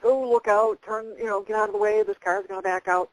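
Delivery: loud, sharp inner-voice warning; urgent warning. Retold or imitated. Her guide's voice in her head warning of a car, urgent shout. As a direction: call it out like a sudden alarm.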